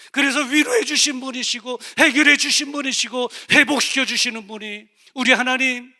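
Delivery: loud, high, ringing sermon voice; full-force preaching. Acted. (힘차게 외치는 설교)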